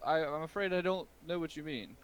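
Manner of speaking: put-on the old merchant feigning innocence to the ogre; flustered shopkeeper. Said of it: "He's like".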